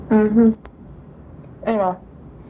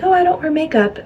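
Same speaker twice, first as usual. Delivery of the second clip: airy, higher smug humblebrag; pick-me voice; 6 semitones higher than usual. Retold or imitated. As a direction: say it like a pick-me girl. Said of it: "I'm not trying to sound pick me".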